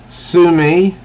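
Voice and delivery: high, incredulous question, laugh held back; as if about to laugh, but don't; almost laughing. Acted. She scoffs at his threat to sue, almost laughing. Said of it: "like she's going to laugh, but she doesn't".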